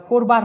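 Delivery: করবার with a rounded closed o, "korbar"; first vowel of করবার closed to o; o sound in করবার. Shown as a demonstration. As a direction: say করবার as "kor-bar". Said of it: "তখন সেটার উচ্চারণটা".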